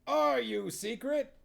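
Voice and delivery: high loud rising shout; rallying shout. Acted. Huel rallying witches, loud high shout. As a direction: whip up the troops.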